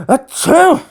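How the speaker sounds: high, loud sneeze. Acted. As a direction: sneeze hard. Sneezing, allergic to glass.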